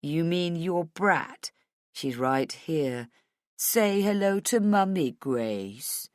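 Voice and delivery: slow, drawn-out menace; leisurely, mocking threat; taunting villain. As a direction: toy with them, stretching the words. Kidnapper taunting mother on phone.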